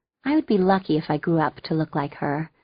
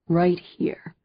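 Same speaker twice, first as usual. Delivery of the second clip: whisper. Acted. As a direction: drop to a whisper. Jeb ends line in whisper.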